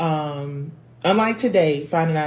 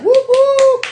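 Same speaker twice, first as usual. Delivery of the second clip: whoop; 14 dB louder than usual. Real, not acted. Celebrating figuring out the tech.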